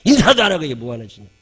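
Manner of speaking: quick mock telling-off; retold scolding. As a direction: re-enact scolding a child, fast. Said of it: "막 야단을 쳐가지고". (아이를 빠르게 꾸짖는 흉내)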